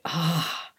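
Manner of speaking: soft, let-down "ah"; deflated sigh. Retold or imitated. Lone hiker finding an empty shelter, deflated sigh. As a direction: sigh it out quietly. Arriving to find nobody there.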